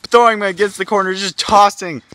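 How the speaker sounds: high, loud ringside calls; excited play-by-play. Acted. Commentator watches wrestlers taunt and throw, high excited calls. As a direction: urge the crowd to look.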